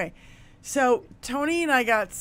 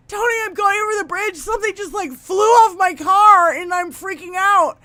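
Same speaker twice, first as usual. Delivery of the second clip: panicked; 6 semitones higher, 4 dB louder than usual. Retold or imitated. Panicked phone call to Tony.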